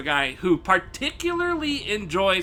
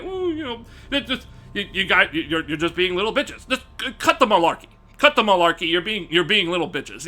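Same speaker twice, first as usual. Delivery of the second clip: prim soft scolding; faster than usual. Retold or imitated. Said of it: "the whitest way you can explain it".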